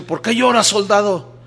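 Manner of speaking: captain asks the weeping soldier why, baffled; puzzled captain. Retold or imitated. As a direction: ask it like a startled captain. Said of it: "extrañado, le dice".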